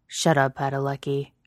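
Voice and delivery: a touch of a growl, embarrassed; lightly growled comeback; mild growl. Acted. Blushing lover growls back at his teasing partner, mild growl. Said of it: "Jensen growled".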